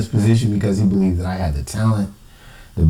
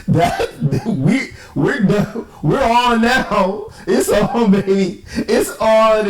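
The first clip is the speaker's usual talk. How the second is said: higher and pushed, building a challenge; fired-up vow; 11 semitones higher, slower than usual. Real, not acted. Swearing revenge on the moderator, a high fired-up vow. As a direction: throw down the gauntlet.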